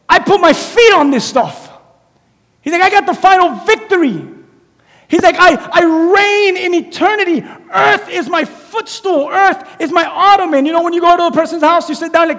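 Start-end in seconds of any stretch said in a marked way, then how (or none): 0.1-10.6 higher, shouted victory boast; triumphant Jesus. Retold or imitated. Jesus boasting of his victory, triumphant shout. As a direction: declare it like a king who has already won.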